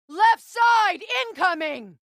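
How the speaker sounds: called out sharply in battle; urgent combat callout; warning shout. Acted. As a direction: yell the warning to Kratos.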